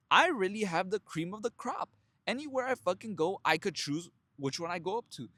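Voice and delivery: thrilled at his own power; excited. Retold or imitated. Realizing he can approach any woman, excited.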